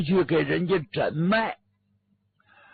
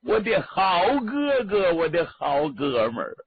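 wailing lament. Acted. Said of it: "孙凤山一看是顿足捶胸啊".

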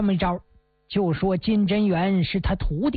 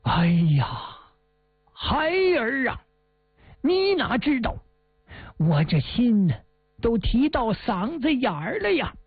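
a mild acted lament, pitch rising on 孩儿啊; heavy sighing lament; 3 semitones higher than usual. Old Hu Dahai sighs to the boy, feigning worry, mild sorrowful lament. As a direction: sigh it out, worried and sorrowful. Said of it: "胡大海一声长叹呐".

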